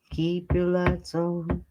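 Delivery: lightly voiced cat, very slow; voicing the cat. Speaking for the cat to everybody, slow put-on sign-off. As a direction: draw it out slowly as the pet's sign-off. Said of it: "You wanna tell everybody keep the lights on?".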